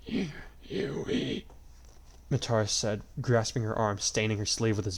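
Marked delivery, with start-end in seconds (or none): 0.1-1.5 whisper. A narrator's reading. Dying man speaks.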